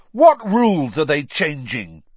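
urgent demand yelled from the window; bellowing. A narrator's reading. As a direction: call after people leaving. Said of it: "Fred bellowed out of the window".

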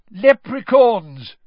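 high, loud, slow call over applause; excited shout over the crowd. A narrator's reading. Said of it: "said Mister Weasley over the tumultuous applause".

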